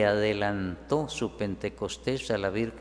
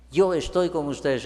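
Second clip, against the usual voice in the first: Yo stressed, higher and louder; louder promise; 4 semitones higher, 5 dB louder than usual. Shown as a demonstration. The Lord reassures his people, higher and louder. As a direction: proclaim "Yo estoy con ustedes" boldly. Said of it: "a todos el Señor les dice".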